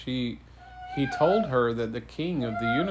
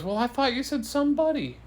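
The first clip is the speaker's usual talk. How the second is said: quick, high-pitched protest; storybook girl's indignant excuse; defensive; 11 semitones higher, faster than usual. Acted. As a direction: argue back fast and high. Girl defends her mishearing.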